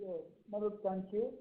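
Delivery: faint, far from the mic; speaking away from the phone; phone held away. Real, not acted. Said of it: "May I please request you to speak closer to the phone".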